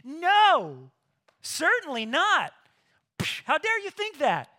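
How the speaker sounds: loud, high, outraged refusal; emphatic no. Retold or imitated. Pastor voicing Paul's answer to sinning on, in a loud outraged no. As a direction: shout it down, appalled at the idea. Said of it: "What does he say emphatically?".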